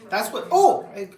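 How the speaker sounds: sudden delighted outburst; excited. Real, not acted. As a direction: break off thrilled. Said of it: "I'm getting excited here over groceries".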